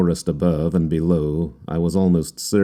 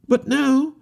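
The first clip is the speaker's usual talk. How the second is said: despondent. A narrator's reading. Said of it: "uttermost depths of despondency".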